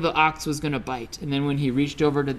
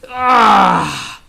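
high, bright-eyed monkey voice, stretching into a lazy yawn; a smug little monkey announcing nap time; cheeky monkey voice; 9 semitones higher, 9 dB louder, slower than usual. Acted. Storyteller voices the monkey, much higher and louder. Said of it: "the monkey would say".

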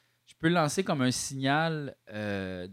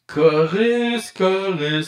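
chorus effect; 4 semitones higher, 4 dB louder, much slower than usual. Shown as a demonstration. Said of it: "le chorus".

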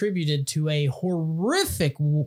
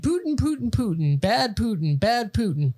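mocking; 6 semitones higher than usual. Mocking the media's Putin chant.

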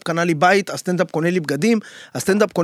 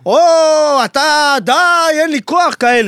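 put-on higher, louder fed-up teenage whine; exasperated teen daughter; 9 semitones higher, 6 dB louder than usual. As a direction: groan it out like a sulky teen. Daughter voiced in father's story.

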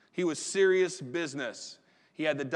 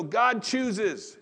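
slow emphasis; 4 semitones higher, 4 dB louder than usual. Real, not acted. Preacher slows for emphasis.

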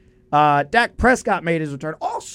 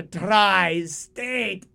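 very slow, drawn-out shouted wail; hammed-up cartoon villain; Doofenshmirtz villain line; 3 semitones higher, much slower than usual. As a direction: cry it like a villain conquering the region. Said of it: "the greatest villain line ever".

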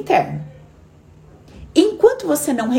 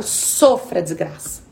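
mock cruel command; 5 semitones lower, much slower than usual.

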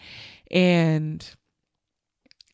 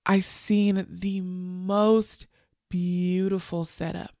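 choked up; 5 dB quieter, slower than usual. Real, not acted. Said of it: "I'm not crying right now".

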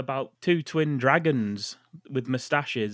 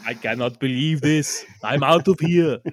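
loud, exaggerated storming-off outburst; mock outrage; 8 dB louder, slower than usual. Podcast host acting out a fed-up listener, mock outrage. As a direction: declare it loudly in hammed-up indignation.

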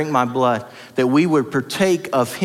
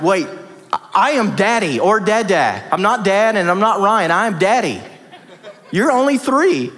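mock correction; 4 semitones higher than usual. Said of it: "And I'm like".

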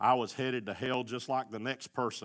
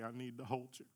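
much softer, a quiet plea; tender plea; 9 dB quieter than usual. Retold or imitated. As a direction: ask softly, like a child reaching up. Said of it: "come to him and say".

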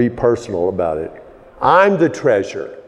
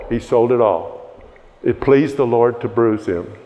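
ordinary delivery

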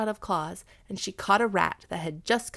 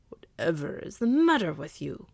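a dog's gruff growl, louder; 6 dB louder than usual. Acted. Dog Blackfoot growls at the cat, gruff and louder. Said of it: "growled Blackfoot".

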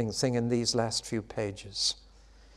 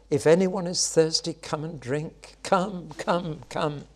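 pleading invitation; 4 semitones higher, slower than usual. Acted.

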